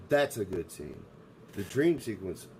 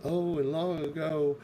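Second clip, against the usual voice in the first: mock voiceover; 5 semitones higher than usual. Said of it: "and it's, like, this voiceover, like".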